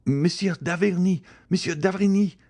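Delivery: high, choked call for the doctor; high-pitched, stifled alarm; stifled cry. A narrator's reading. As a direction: cry out in horror, voice held in. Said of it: "cried she in a stifled voice".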